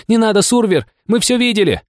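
woman by the wall shouts a plea, high; shouting. Acted. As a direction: call out to stop him. Woman keeps shouting while running.

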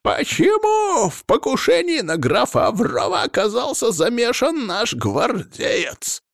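stern demand. A narrator's reading. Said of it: "строго спросил князь".

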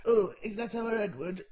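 slow, homely Yorkshire granddad; a hint of Yorkshire old man; Yorkshire accent. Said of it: "He's from Yorkshire now".

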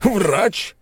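high, loud scornful shout; furious yell. A narrator's reading. Merchant yelling back at the crowd, furious. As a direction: bellow the word in rage. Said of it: "заорал он".

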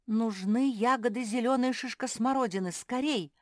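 с нажимом, подгоняя; поторопи всех, повысив голос; торопливо. A narrator's reading. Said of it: "поторопила Глаша". (торопливо и настойчиво)

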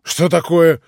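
high, loud stunned repeat; astonished high outburst; stunned disbelief. A narrator's reading. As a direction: thrown off balance, demanding. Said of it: "остолбенел Иван".

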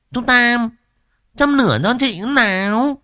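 high, loud demand; bossy woman. Acted. Quýt Nẫu telling Tam to light her pipe, high and loud. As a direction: order him to light it.

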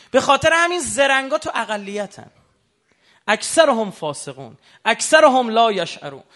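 loud, high sermon cry; fiery preaching. Acted. Preacher crying out to the congregation in full force. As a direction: thunder it from the pulpit, slowing at the end.

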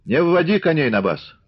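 high-pitched, restrained call; calling out from afar. A narrator's reading. Old man stops riders at the gate, calling out. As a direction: warn them off from a distance. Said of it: "крикнул он ещё издали".

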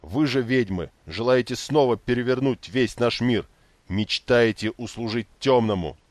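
loud, furious accusation; angry accusation. A narrator's reading. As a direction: hurl it at the witches. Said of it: "Слова выплескивались из него, как лава". (гневное обвинение)

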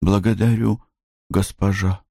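meek submissive echo. Acted. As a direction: repeat it meekly like a servant. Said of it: "Блум".

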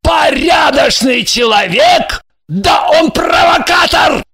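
slow, loud scornful repeat; enraged husband sneering at the guest; furious mocking shout. A narrator's reading. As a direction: throw her words back at her, yelling. Husband mocks her words, furious.

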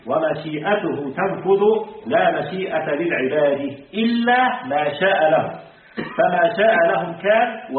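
slow, measured reading of the creed text. Acted. Teacher reading the sheikh's words to the class, slow and measured. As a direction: read each phrase out slowly for the students.

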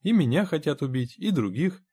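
high-pitched, placating agreement; reassuring character voice, pitched well up. A narrator's reading. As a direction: soothe a frightened man by agreeing. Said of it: "успокаивающе сказал Генри".

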